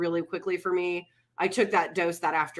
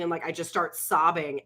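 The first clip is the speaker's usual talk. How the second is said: ordinary talk, nothing marked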